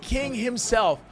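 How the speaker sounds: hyped announcer calling the game; play-by-play commentary. Pretend. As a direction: narrate the action like a broadcaster.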